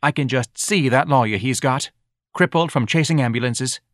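lightly voiced nagging wife. Mrs Levy nags.

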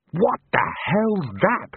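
a frightened wizard yelling over the noise; yelled. A narrator's reading. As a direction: cry out in alarm. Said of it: "he yelled".

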